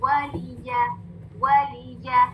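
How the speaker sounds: वलिया starting on a fully rounded "w"; complete rounding. Shown as a demonstration. Teacher showing the rounded waw, even syllables. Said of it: "वाव के लिए complete rounding".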